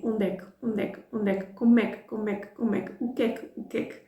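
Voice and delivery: fast, clipped é que joined to each word; quick native run-together. Shown as a demonstration. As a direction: rattle them off like a native. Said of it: "native speakers over and over again saying".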